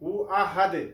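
আহাদে with the final D bounced into a short echo; qalqalah echo. Shown as a demonstration. Teacher demonstrates the echoing dal, qalqalah bounce. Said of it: "দালটি হচ্ছে কলকলা হরফ".

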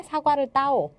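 "따오"의 끝을 높이 끌어올려서; 암기 구호처럼 "따오"를 위로 올려 말하기; 올라가는 성조. Shown as a demonstration. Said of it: "성조는 올라가는 성조". ("따오"를 올라가는 성조로 높게)

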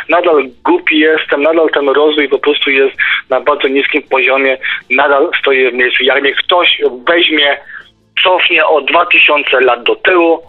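usual speaking voice

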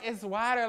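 "water" with an open ah vowel; corrected "water". Retold or imitated. Girl repeating her correction to him, open-ah "water". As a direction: repeat "water" firmly as "wahter". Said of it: "She's like".

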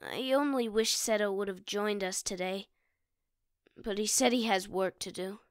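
wistful. Acted. Sad wish for brother.

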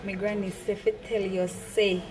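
reading patois from a book cover; light Jamaican patois lilt. Retold or imitated. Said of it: "how to speak Jamaican".

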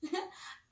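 a short high breathy giggle; light giggle. Acted. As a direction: giggle like a happy little girl. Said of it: "laughed Mia".

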